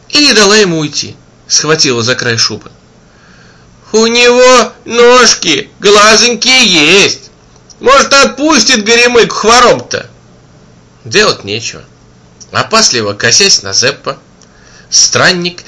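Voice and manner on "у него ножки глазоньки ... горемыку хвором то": high pleading woman's voice; pleading auntie. A narrator's reading. Kind auntie begging the wanderer to pray. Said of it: "сердобольная тётка".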